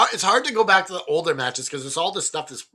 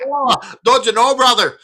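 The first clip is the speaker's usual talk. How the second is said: higher, louder hammed-up Canadian accent; 9 semitones higher, 9 dB louder than usual. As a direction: ham up a Canadian "don't you know". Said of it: "Canadian accent coming out".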